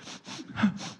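soft voiceless mock sobs; mock crying. Imitating a plumber crying on the job, mock crying. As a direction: fake some quiet weeping. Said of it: "why are you crying".

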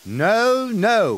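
Edward's high whistled protest; whistling. A narrator's reading. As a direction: whistle a quick refusal. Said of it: "whistled Edward".

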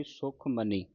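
ਸੁਖ ਮਨੀ with n at the teeth; tongue forward for the n in ਮਨੀ; ਸੁਖ ਮਨੀ as "sukh ma-nee", no retroflex; plain dental n. Shown as a demonstration. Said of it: "ਨੰਨੇ ਦੀ ਆਵਾਜ਼ ਉਚਾਰਨ ਹੋਵੇਗੀ".

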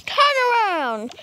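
loud angry parent command; stern command. Acted. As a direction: snap the order at the kid. Parent ordering child.

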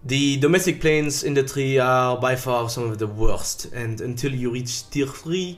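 put-on English with a thick French accent. I hope you all enjoyed, uh, my French accent.

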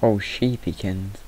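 slow, fond cooing; slow baby-talk to a sheep. Acted. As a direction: coo it like to a pet.

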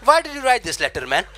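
mock scolding. Scolding the letter writer.

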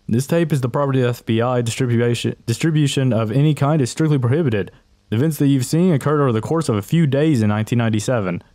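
fast, formal document reading; official report read. Acted. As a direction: read it like an FBI notice. Reads the ending FBI text.

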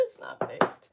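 high-pitched giggling repeat; high laughing squeal. Shown as a demonstration. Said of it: "repeated with laugh".

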